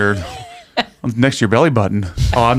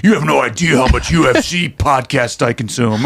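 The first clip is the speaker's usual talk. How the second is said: slow, boastful bro voice; modern man voice; 3 semitones higher than usual. Pretend. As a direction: brag like a podcast bro. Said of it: "You do sound like a modern man".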